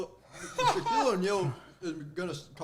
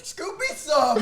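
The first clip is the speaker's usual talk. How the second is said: high, loud laughing call; laughing plea; 9 semitones higher, 5 dB louder, slower than usual. Real, not acted. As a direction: beg through laughter. Begging, laughing.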